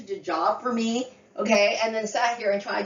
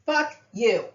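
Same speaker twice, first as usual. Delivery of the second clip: louder angry curse; 3 semitones higher, 5 dB louder than usual. Real, not acted. Cursing at ex's relatives.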